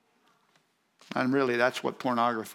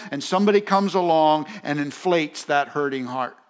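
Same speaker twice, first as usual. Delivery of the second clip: raised, insistent sermon voice; forceful preaching; 4 semitones higher, 6 dB louder than usual. Real, not acted. Preacher telling congregation about hurting hearts, forceful preaching. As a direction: press it on the listeners.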